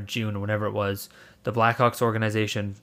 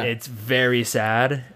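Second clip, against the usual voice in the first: shaky sad; much slower than usual. Real, not acted. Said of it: "I'm literally shaking".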